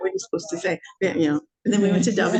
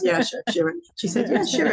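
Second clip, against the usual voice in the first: mock hostess; 9 semitones higher than usual. Hostess replies to request.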